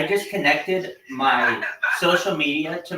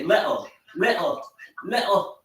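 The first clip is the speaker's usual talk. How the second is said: British accent. Shown as a demonstration. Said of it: "you wanna hear my British accent".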